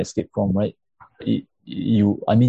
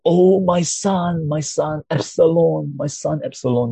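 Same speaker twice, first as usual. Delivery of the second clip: higher, drawn-out mock lament; David's grieving cry; 6 semitones higher than usual. Pastor voicing King David mourning his son, higher lament. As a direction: cry out for a lost son, voice lifted high. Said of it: "when he cried out".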